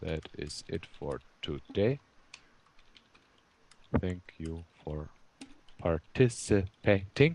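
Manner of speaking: slow, drawn-out, dictation-style delivery.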